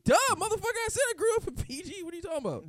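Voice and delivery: loud, high, offended yell; indignant outburst. Real, not acted. Answering the PG schools dig with a loud, high, offended yell. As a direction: fire back, insulted and loud.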